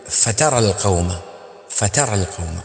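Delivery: فترى with the push on the ت, not the fa; right stress on ta in فترى; correct stress on the ta. Shown as a demonstration. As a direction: press the ta of فترى. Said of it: "تقول".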